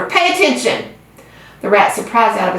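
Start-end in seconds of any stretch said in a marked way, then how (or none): 0.0-0.8 urgent cry. A narrator's reading. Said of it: "screamed Wilbur".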